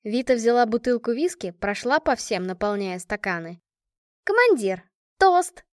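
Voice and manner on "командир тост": high, loud call for a toast; bellowing. A narrator's reading. Машка demands a toast from her commander, bellowing. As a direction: yell it out to the commander. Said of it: "заорала Машка".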